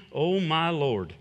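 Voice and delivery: slow, soft, sinking groan of dismay; dramatic dismay. Pretend. Gideon answering the angel, slow and softly dismayed. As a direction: moan it like the weight just landed on you. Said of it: "he might not have said it like that".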